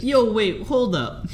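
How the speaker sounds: high startled yelp; sudden high alarmed yell. Retold or imitated. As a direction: jump at the shock. Retelling Steve's shock.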